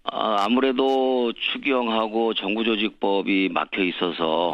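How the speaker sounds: worn-out hoarse voice. Real, not acted. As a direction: speak through a hoarse throat. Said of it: "목이 쉬더라고요". (쉰 목소리)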